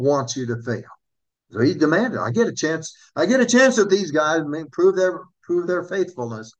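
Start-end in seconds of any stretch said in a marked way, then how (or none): 2.2-6.5 a lightly voiced Satan, pushier and higher; Satan demanding. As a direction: let Satan gloat over his chance. Preacher voices Satan demanding a chance.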